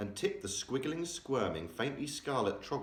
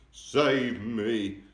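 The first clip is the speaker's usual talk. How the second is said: scream; 3 semitones higher, 6 dB louder than usual. A narrator's reading. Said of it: "screamed the flesh lump eater".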